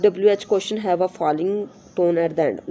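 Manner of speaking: slow, careful reading of the English text; slow textbook reading. Shown as a demonstration. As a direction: read each word out slowly for the class. Reads textbook rule aloud. (धीमी, साफ़ पाठ्य-पुस्तक पढ़ाई)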